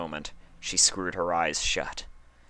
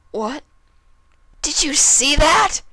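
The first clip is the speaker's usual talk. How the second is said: much higher, louder, slow ecstatic cry; thrilled; 12 dB louder than usual. Acted. Dash gushes to Applejack after the knife, loud and thrilled. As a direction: drag it out with thrill.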